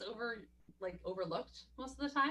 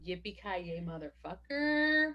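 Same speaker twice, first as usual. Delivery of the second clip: quoting McClane; much slower than usual. Retold or imitated. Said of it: "written down so many quotes".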